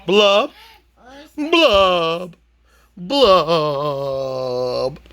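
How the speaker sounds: a moping fish, lifted high and droopy at the end; sulky fish voice. Acted. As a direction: play the glum fish, pitch jumping up. Fish refrain in character voice.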